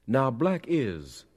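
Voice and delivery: high, loud, drawn-out sermon cry; preacher shouting. A narrator's reading. Preacher crying out to his congregation, shouted. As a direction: call it out slowly from the pulpit. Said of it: "the preacher shouted".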